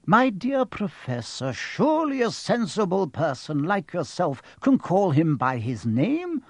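mildly chiding, reasonable wizard; lightly voiced old wizard. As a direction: play a wizard patiently chiding a colleague. Dumbledore voiced in the story.

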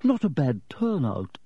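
self-satisfied ghost host; proud. A narrator's reading. Ghost host surveys his party crowd, proudly. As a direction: remark on it with grand pride. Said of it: "Nearly Headless Nick proudly".

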